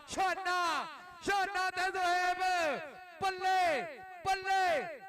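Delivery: rising excited chant of the name; excited cheer. Real, not acted. Cheering the raider.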